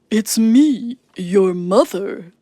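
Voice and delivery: slow wolf posing as mother; lightly voiced wolf faking mama, slowly; deep wolf voice. A narrator's reading. Wolf pretends to be the goats' mother, slow. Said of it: "said a deep voice".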